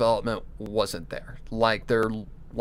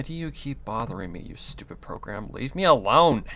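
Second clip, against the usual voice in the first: irritated. Real, not acted. Annoyed at the software.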